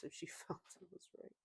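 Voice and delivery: amused, trailing into breath and laughter; laughing. Real, not acted. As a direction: lose your voice to a chuckle as you read. Laughing while reading the post.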